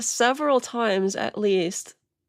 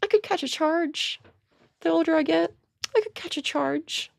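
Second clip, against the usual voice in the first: mocking echo of a boast; 7 semitones higher than usual. Host mockingly echoes clip speaker's boast.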